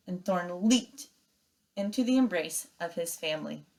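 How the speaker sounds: reading a chapter aloud to the class, steady and engaged; story narration. A narrator's reading. Teacher reading The Wild Robot to her class, storytelling voice. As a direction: tell it like a read-aloud for kids.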